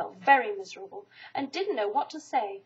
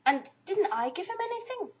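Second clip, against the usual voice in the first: sadly; 7 semitones higher than usual. A narrator's reading. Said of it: "asked Christopher Robin sadly".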